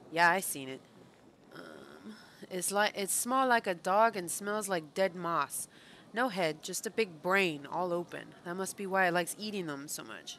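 a hint of a deposed pit king, broken grammar; lightly voiced pit creature. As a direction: lightly act out a sullen underling. Reads game character's dialogue aloud.

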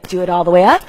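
coaching shout. Real, not acted. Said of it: "coach urges full lift".

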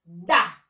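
the word da said low and loud as the English "the"; teacher showing da, deep and firm; pronounce the as da. Shown as a demonstration. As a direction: model da slowly in a low voice for the class. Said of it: "y se pronuncia".

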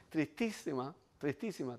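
hushed, drooping mock-sad murmur. Sitting sad in the bar corner, hushed mock sadness. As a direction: let the word sink into a soft pout.

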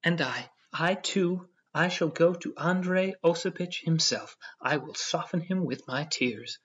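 high, loud, slow tearful whine; whining. A narrator's reading. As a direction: plead like a wife about to weep, lightly played. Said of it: "whined Elena Ivanovna".

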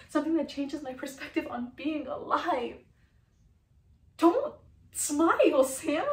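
dramatic confession, loud outbursts sinking into weariness; Brenda, distressed and pleading. Acted. Woman confides in Sam about her life, anguished earnestness. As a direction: plead earnestly, frustration rising and falling.

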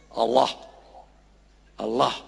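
"Allah" said low and soft, the a's held open; model Allah. Shown as a demonstration. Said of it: "You have to perfect it like this".

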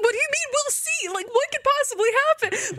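high, indignant disbelief; squeaky high outraged protest; mock outrage. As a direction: demand an answer, outraged. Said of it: "I'm like".

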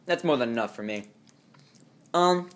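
talking while licking fingers; words round fingers being licked. Real, not acted. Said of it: "sorry, I'm licking, uh, licking my fingers".

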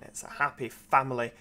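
"happy" given a tongue-in-cheek emphasis; stress on happy. Real, not acted. Driver selling railway work to viewers, pointed stress on "happy". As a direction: lean lightly on the word "happy". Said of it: "I emphasise the word happy".

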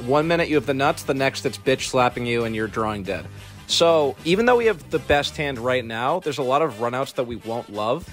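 raspy chain-smoker voice; rough, husky throat after a cold; smoker's rasp. Real, not acted. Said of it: "I sound like a serial chain smoker".

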